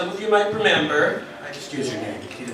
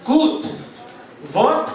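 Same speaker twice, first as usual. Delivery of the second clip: put-on relieved old lady; 5 semitones higher than usual. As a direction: burst out with relief at last. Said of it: "the lady says".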